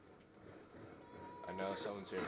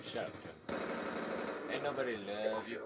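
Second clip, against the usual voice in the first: whispering; 6 semitones lower, 8 dB quieter than usual. Real, not acted. Muttered jab at teammate.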